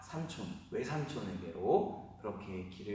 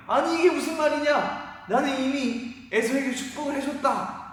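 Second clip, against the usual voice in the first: put-on much higher and louder cry of a shocked old man; shocked father; 13 semitones higher, 10 dB louder than usual. Isaac learning he blessed the wrong son, shocked cry. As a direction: cry out in alarm at the news. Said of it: "이삭이 깜짝 놀란 거예요".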